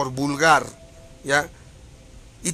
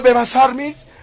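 loud taunt; 6 semitones higher, 5 dB louder than usual. Real, not acted. Taunting his critics by name.

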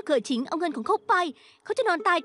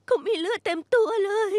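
distraught after nightmare; 3 semitones higher than usual. Acted. Waking distraught from nightmare about father.

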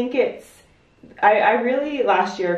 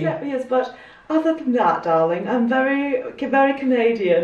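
mock British accent; 5 semitones higher than usual. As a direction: play at a British accent, lightly. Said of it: "I can do a really good British accent".

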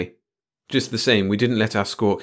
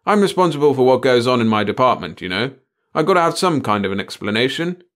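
loud, raised plaintive protest; almost wailing; 4 semitones higher, 6 dB louder than usual. A narrator's reading. Chief demanding an explanation from the boys, almost wailing. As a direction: plead with rising distress. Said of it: "He was almost wailing now".

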